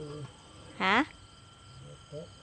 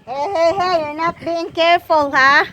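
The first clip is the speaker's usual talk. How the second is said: calling out; 3 semitones higher, 6 dB louder than usual. Real, not acted. Parent warning child.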